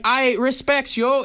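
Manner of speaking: put-on high, slow Toronto slang accent. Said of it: "And she's like".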